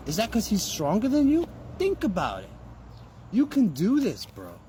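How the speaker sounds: rally yourself like a corner coach; fired-up pep talk. Retold or imitated. Pep talk to himself mid-match.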